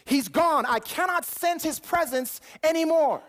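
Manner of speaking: acted gasp, then halting dismay; stricken realization. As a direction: act out suddenly realizing you are abandoned. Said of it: "It's like he realizes".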